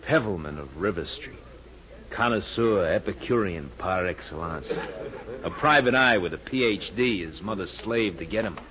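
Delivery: self-mocking, dramatic mini eulogy; grandly wistful summing-up of oneself. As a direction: declaim it like your own obituary, with pauses. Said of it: "stop being dramatic".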